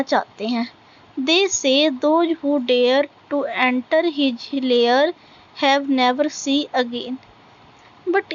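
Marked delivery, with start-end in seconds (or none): 1.2-7.2 very slow, deliberate recitation, word by word; slow poem reading. Acted. Teacher reading a poem line to students, slow recitation. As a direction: read each line out slowly for the class to follow.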